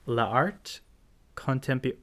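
hesitant attempt at French; bad French accent. Real, not acted. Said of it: "my French accent is the world's worst French accent".

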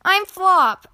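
put-on high, loud childlike reply; high-pitched happy little kid; grinning. A narrator's reading. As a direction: answer eagerly with a grin.

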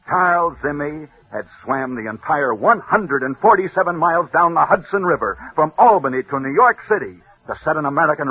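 building radio storyteller, punching the climax; dramatic story narration. Acted. Radio host telling listeners a sports legend, dramatic narration. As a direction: tell it like a rousing radio legend.

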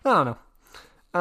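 drawn-out playful evasion; dodging the question with a teasing drawn-out I don't know; mock innocence. Real, not acted.

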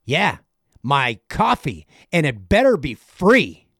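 put-on a nice old man snapping into entitled anger; demanding customer. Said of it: "He's like".

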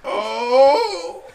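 loud, angry put-on Asian accent dad; Chinese restaurant accent. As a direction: shout it in the mock accent. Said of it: "you sound just like the people".

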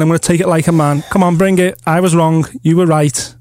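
talking around a mouthguard; words through a gum shield. Real, not acted. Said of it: "I've got my gum shield in".

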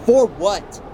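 the question cracks into grief; breaking anguish. Acted. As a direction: skipper breaking down over a lost crewman. Grieving the lost crewman.

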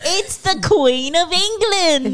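high, slow, drawn-out announcement; mock-grand proclamation. Host answering who the queen is, mock-grand proclamation.

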